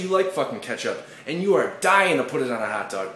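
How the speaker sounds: high, loud defiant tirade; angry comic rant against ketchup haters; furious rant. Acted. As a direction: tear into the tradition police.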